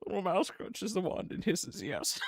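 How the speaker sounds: laughing. Real, not acted. Repeating joke through laughter.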